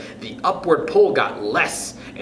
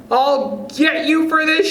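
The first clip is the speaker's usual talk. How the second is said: furious shout; 12 semitones higher than usual. A narrator's reading. Wife threatening her husband while floating down, high angry shout. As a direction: snarl the threat at him. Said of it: "shouted Missus Twit".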